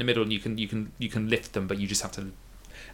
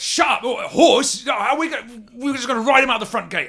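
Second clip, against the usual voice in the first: high, far-off voice in sarcastic disbelief; high sarcastic NPC mocking the idea of riding out; incredulous character voice; 11 semitones higher, 3 dB louder than usual. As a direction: scoff at the mad plan in a squeaky voice.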